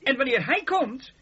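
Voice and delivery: preacher's triumphant reveal; rising proclamation. Acted. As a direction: climb to the climax. Woman's words, then Jesus' reveal.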